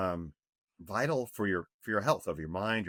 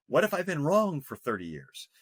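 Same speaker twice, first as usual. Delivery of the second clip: higher, voiced inner worry, half-playful; mock nervous worry; 7 semitones higher, 4 dB louder than usual. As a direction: act out the old nagging doubt. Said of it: "I was a little nervous".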